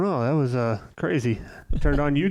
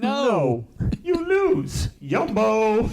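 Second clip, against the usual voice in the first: much higher, yelled refusal; shouted Wonka mock; 10 semitones higher, 3 dB louder, much slower than usual. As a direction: snap it back like the angry candy-maker. Wonka voice reply.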